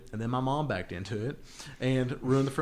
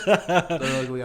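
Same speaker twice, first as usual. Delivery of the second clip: laughing; 4 semitones higher, 7 dB louder, much slower than usual. Real, not acted. Teasing friend about Blazers.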